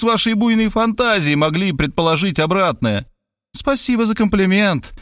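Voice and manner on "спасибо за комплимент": gracious, smiling thanks; kindly smiling. Acted. Detective woman thanking the writer with a gracious smile. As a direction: thank him sweetly, with a smile. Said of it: "любезно улыбнулась она".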